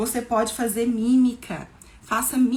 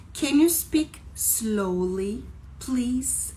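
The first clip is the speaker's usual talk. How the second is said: slow model phrase; 3 semitones higher, much slower than usual. Shown as a demonstration. Teacher models English phrase slowly.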